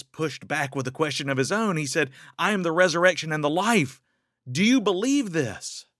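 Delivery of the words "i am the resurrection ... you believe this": louder, faster, higher proclaiming voice; Jesus answering Martha, a loud quick proclamation. Retold or imitated. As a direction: declare it boldly as Jesus.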